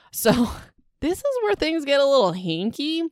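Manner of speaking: amused, about to spill the juicy part; laughing as she tells it. Real, not acted. Gossiping about the plot.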